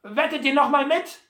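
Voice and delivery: high, loud challenge; calling out. A narrator's reading. Butler calls to Sam for another bet, loudly. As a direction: call the question across to him. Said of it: "rief er Sam Hawkins zu".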